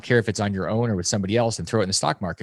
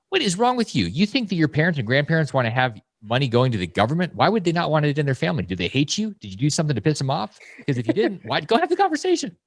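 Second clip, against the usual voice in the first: higher, incredulous rant; exasperated scolding; 5 semitones higher than usual. Retold or imitated. Scolding people who won't talk to parents, exasperated. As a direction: demand to know what's wrong with them.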